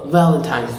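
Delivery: "Valentine's" with teeth on lip; low, buzzed v in "Valentine's"; correct V. Shown as a demonstration. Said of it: "this is the sound of V".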